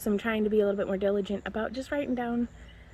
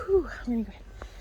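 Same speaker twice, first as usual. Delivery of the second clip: whispery, breathless from exertion; winded, barely any voice; out of breath; 2 semitones higher, much faster than usual. Real, not acted. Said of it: "I'm catching my breath".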